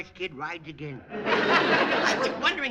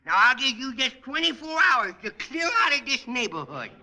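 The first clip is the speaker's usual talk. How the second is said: put-on bratty kid voice; 3 semitones higher than usual. Junior character voice throughout.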